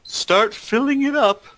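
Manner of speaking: high, loud order to a servant; commanding. Acted. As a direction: bark at the unseen servant.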